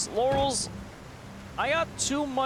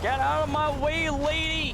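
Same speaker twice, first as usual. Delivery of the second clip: raised, urgent yell at the road; shouting while driving; 6 semitones higher than usual. Real, not acted. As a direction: yell it from behind the wheel. Driving through zombie crowd.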